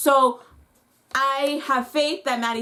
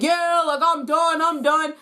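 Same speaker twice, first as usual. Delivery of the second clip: mock celebration; 4 semitones higher than usual. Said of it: "he's celebrating".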